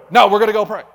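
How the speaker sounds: loud, high-pitched scolding; acted-out parent overruling a child; firm refusal. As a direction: shout down a tantrum. Preacher scolds his screaming flesh.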